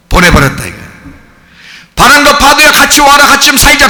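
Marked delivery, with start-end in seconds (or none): 2.0-3.9 mock pleading. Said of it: "그런 거 아닙니다".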